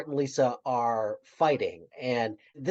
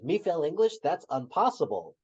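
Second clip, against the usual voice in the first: Ralph voice; 6 semitones higher than usual. Retold or imitated. Ralph quoted.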